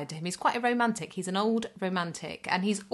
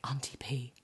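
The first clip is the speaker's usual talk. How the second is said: low, voiceless imitation of a child's whisper; 6 semitones lower, 8 dB quieter than usual. Small boy telling a parent a secret, whispered. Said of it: "he whispered in my ear".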